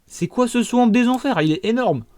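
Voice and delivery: high, astonished exclamation; amazed. Real, not acted. Gamer spotting a giant swamp, amazed. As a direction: gasp it out at the sight.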